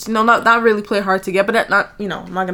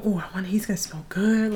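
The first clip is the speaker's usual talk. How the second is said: whispering; 5 dB quieter than usual. Retold or imitated. Retells nervous thought before date.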